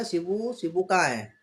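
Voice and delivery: mother calling. Retold or imitated. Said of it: "बोलती है ना".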